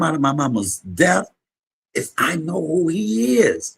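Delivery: high, rising preacher's cadence; building church testimony, voice climbing; preaching. Acted. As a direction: testify it to the congregation.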